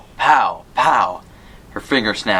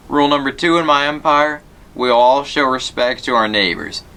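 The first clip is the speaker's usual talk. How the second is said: stern teacher; 5 semitones higher than usual. A narrator's reading. Teacher laying down the rule to the class, lightly stern. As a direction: lay down the class rule, firm.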